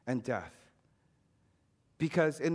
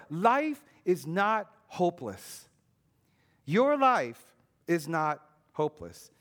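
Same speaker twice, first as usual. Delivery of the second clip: slow, called-out declaration, a touch louder; like a voice yelling across a football field; distant voice calling; 4 dB louder, slower than usual. Retold or imitated. The Spirit's voice calling across a field to the despairing boy, slow and declaring. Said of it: "The voice would say".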